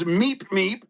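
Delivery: imitating the cat. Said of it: "means, uh, it's her turn".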